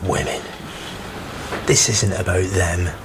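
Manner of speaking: low, half-whispered seething; bitter muttering. Acted. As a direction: hiss it under your breath in anger. Official muttering bitterly after defeat.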